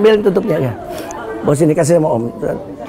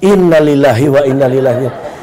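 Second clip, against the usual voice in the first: low, monotone funeral mutter; mock condolence, pitched well down; resigned God; 11 semitones lower than usual. God reacts to the drowning man, mock-solemn condolence. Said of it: "Tuhan akhirnya gini".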